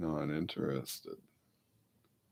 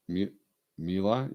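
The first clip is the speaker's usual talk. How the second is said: coaxing call; 3 semitones higher, 4 dB louder than usual. Shown as a demonstration. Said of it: "See the vocal tricks?".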